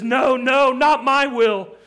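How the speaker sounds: loud, high cry of anguished surrender; desperate, insistent prayer at full cry; horrified. Acted. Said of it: "horrified as he is".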